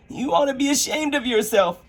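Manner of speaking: high girl's voice, mock stern; Alice scolding herself. Alice scolding herself for crying, mock stern. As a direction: scold yourself like a governess.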